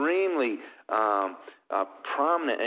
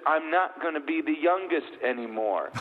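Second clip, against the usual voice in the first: lightly voiced young boy, pitched higher; David; 6 semitones higher than usual. Ten-year-old son loses his place as youngest, lightly voiced higher. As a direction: lightly imitate a child's high-pitched protest. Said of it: "My ten-year-old, uh, David".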